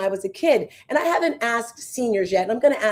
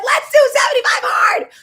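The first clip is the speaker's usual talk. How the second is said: much higher and louder cheer; rally everyone in with a whoop; trying to pull everyone into seventy-five hard, cheering loudly; hyped rallying call; 8 dB louder than usual. Retold or imitated. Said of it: "I'm like".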